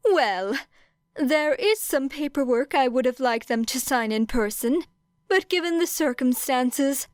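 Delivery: polite, faintly sympathetic headmaster tone; voiced principal Nezu. Nezu explains paperwork.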